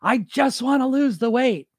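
mock dieter. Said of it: "I hear you saying".

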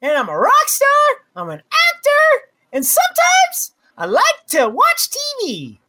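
put-on pinched little kid voice. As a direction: squeeze it into a kid's voice. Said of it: "I have a little kid voice".

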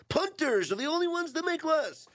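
high, wild-eyed unhinged squeal; crazy voice. Retold or imitated. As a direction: play him as a raving lunatic. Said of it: "now suddenly I have to talk in a crazy voice".

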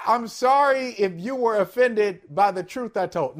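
backhanded sorry, mock sincere; fake apology. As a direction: apologize while still needling. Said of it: "no, no, that's not good either".

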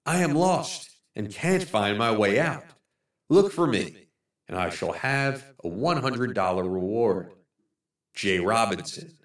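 softly voiced plea from a man lost in the woods; lost man's note. Lost man writing to his searchers, soft pleading voice.

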